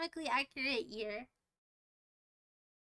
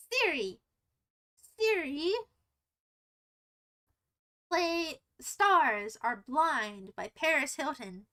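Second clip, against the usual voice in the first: slow deliberate command; slower than usual. Real, not acted. Commanding voice assistant.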